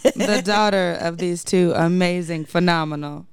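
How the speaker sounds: dry, understated sarcasm; mock-grand praise with a sarcastic edge. Real, not acted. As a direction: deliver the compliment with veiled sarcasm. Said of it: "that was sarcasm".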